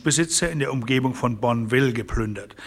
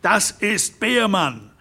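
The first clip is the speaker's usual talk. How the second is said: shout; 7 semitones higher, slower than usual. A narrator's reading. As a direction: call out the name in alarm. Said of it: "schrie Hermann Derrick". (laut rufend)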